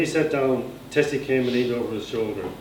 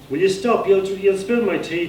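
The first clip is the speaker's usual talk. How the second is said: annoyed protest; 8 semitones higher than usual. Acted. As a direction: snap at them to stop before the tea spills. Tommy jostled at his tea.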